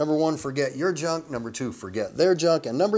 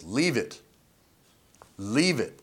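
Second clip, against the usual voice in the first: dog command. Shown as a demonstration. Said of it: "the command basically is".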